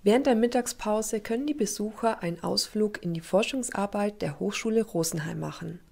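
scripted TV report narration; measured, informative broadcast read; news voice-over. Acted.

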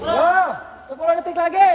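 time call. Real, not acted. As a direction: call out the last seconds to the fighters. Coach calling out time left. (seruan lantang hitungan waktu)

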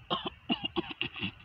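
harsh coughing fit while being choked. Real, not acted. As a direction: cough hard, throat squeezed. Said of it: "I got choked and I had to cough it out".

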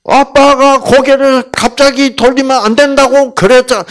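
put-on loud, high scolding of a child. Father scolding his daughter by the law, loud and stern. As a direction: scold her by the rules. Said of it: "그러면 제가 어떻게 해야 돼요?".

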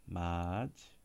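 맞 with a barely released J at the end; subtle J sound. Shown as a demonstration. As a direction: say 맞, ending on a subtle J. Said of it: "it's very subtle".

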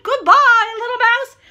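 very high, loud mock-scared goodbye; hammed-up terrified fox; panicked farewell. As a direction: squeal it out as you flee. Frightened fox runs away.

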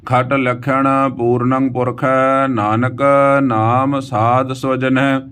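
slow, sustained Gurbani reading; measured verse chant on an even pitch; scripture recitation. Acted. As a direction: recite with long drawn vowels.

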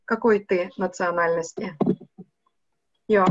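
normal talking voice

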